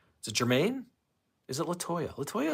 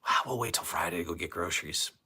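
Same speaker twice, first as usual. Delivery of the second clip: mock casual; 7 semitones higher, 5 dB louder than usual. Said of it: "We're like".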